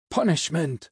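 contained shout from the crowd; barked shout. A narrator's reading. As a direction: bark out the accusation. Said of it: "almost like barks from all the angels".

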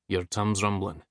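lightly voiced broad Scottish accent; a hint of a broad Scottish lilt. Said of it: "in his broad Scottish accent".

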